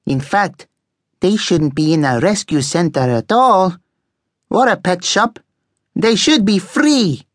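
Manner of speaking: indignant rant, slowly and emphatically delivered; cross. A narrator's reading. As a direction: lecture them crossly in an accented character voice. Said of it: "Eduardo said crossly".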